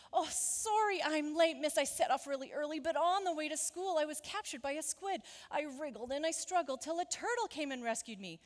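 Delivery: animated storybook schoolchild; Tiddler's excited excuse. Acted. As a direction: tumble out the excuse eagerly. Plays Tiddler telling tall tale.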